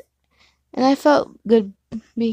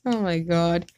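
giddy; slower than usual. Real, not acted. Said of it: "I'm a little baby too excited".

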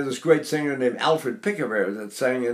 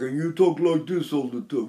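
lightly imitated Bronx accent; a touch of New York Bronx talk. Teacher imitates a Bronx student, light Bronx accent. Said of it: "you're from the Bronx".

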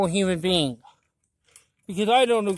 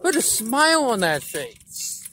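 slow, drawn-out movie quote; lightly voiced taunting villain line; the Joker. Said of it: "To put in the words of the Joker".

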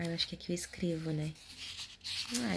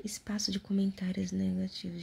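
whispering. Acted. Whispered reading.

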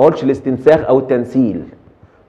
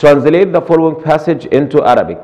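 slow dictation; 2 semitones higher, much slower than usual. Shown as a demonstration. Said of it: "الجزء الأخير من المحاضرة".

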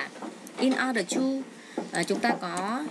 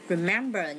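"remember" with MEM stressed; stress on second syllable. Shown as a demonstration. Teacher showing word stress to students, "remember" stressed on MEM. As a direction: slowly lean on the middle syllable of "remember". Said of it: "nhấn âm hai".

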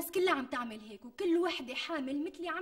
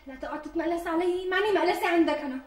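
irritated snap; 4 semitones higher, 6 dB louder than usual. Acted. Wife snaps at mocking husband.

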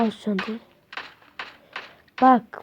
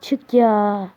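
louder, slow frustrated push; raised voice; 7 dB louder than usual. Real, not acted. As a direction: drag it out, fed up with waiting. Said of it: "sesimi yükselttiğim için kusura bakmayın". (sinirle sesini yükselterek)

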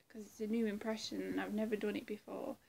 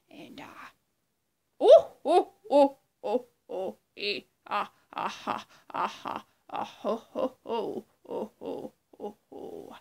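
Joker; 10 dB louder than usual. Acted. Joker impression breaking into a put-on maniacal laugh. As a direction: burst into a manic ho-ho-ha laugh, then let it die down. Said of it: "that was my impression of Joker".

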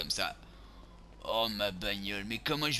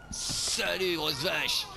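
higher, mocking jeer; gleeful taunt; 5 semitones higher, much slower than usual. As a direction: call out a cheeky insult. Taunts victim in the game.

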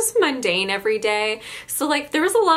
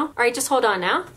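put-on Newfoundland accent; faster than usual. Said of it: "in that voice".

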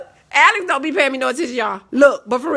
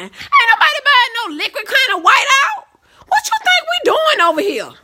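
exasperated disbelief; 10 semitones higher than usual. Real, not acted. Mocking Alex's advice, exasperated.

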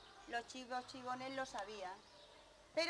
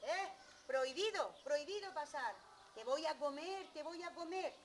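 raised, emphatic mock threat; ogre forbidding; 4 semitones higher, 3 dB louder than usual. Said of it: "con el ogro, que le dijo".

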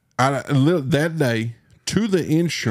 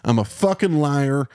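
mock confession; 3 semitones higher than usual. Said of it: "just be like".

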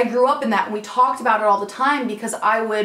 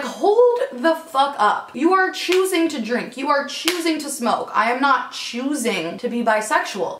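heated retold retort; 5 semitones higher than usual. Retelling heated argument with friend.

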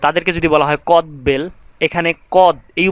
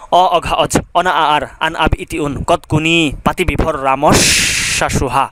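quicker rhythmic run through the prefix list; faster recital. Shown as a demonstration. Teacher repeating the prefix list faster for students. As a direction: rattle the prefixes off a bit faster, keeping the rhythm. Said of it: "এবার একটু দ্রুত বলবো".

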